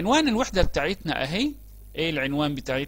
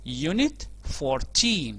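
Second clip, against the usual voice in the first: slow model phrase; much slower than usual. Shown as a demonstration. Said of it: "ده رقم الوحدة بتاعتنا Unit fourteen".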